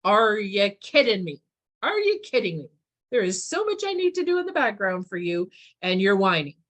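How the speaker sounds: loud, fed-up disbelief; exasperated universe. Retold or imitated. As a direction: scold them for whining. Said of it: "And the universe is like".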